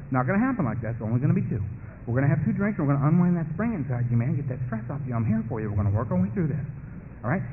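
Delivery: lightly voiced persuader, talking him down; coaxing beast. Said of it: "the beast whisper up and say".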